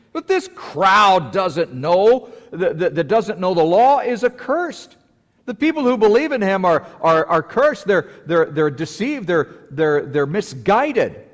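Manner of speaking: high, loud sneer broken by laughter; laughing mockery. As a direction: laugh at the foolish crowd as a Pharisee. Mocking Pharisees' sneer with laughter.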